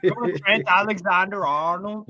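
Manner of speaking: mock Liverpool accent; Scouse accent. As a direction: show off a put-on Scouse. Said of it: "All these accents we're mimicking".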